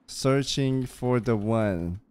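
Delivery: woo her like a storybook knight; romantic knight. Acted. Role-played flirting with NPC.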